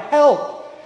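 a high cry of "Help". Acted. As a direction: call out "Help" as a plea. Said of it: "we must learn to cry".

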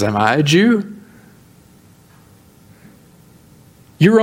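mildly defensive acted questioning; a little defensive. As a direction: push the question back, lightly voiced. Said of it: "Pilate gets a little defensive".

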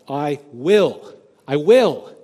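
rising pulpit insistence on "I will"; emphatic echo. Acted. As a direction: drive home "I will" twice, building. Preacher echoing God's "I wills.

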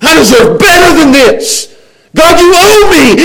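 high, indignant protest; entitled complaint. Acted. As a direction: demand what you think you're owed. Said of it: "and you think".

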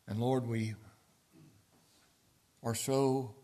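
slow, reverent prayer voice. Acted. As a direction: pray humbly, unhurried. Leads closing prayer.

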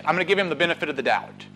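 quiet, quick aside. Acted. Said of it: "he looked at his brother and he said".

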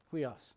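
Huios said slowly as hwee-os, soft h at the start; Greek word demo. Shown as a demonstration. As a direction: pronounce Huios carefully, like a Bible school teacher. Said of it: "it's an H sound".

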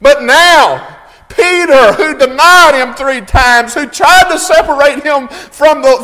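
loud, driving pulpit delivery; impassioned sermon cadence; full-force preaching. Real, not acted. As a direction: preach it with rising fervour.

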